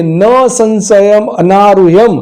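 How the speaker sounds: measured, drawn-out verse reading; slow, careful verse chant; slow Sanskrit recitation. Shown as a demonstration. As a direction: recite the shloka slowly, syllable by syllable. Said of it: "તેથી જ કહ્યું છે કે".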